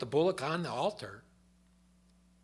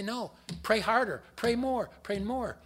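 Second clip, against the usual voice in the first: urging frantically; 9 semitones higher, 5 dB louder than usual. Retold or imitated. Prophets urging each other on.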